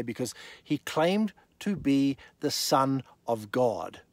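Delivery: slowed for weight; slow, deliberate. Shown as a demonstration. Preacher reading the key verse slowly. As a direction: let each word land slowly. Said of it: "Now listen very carefully".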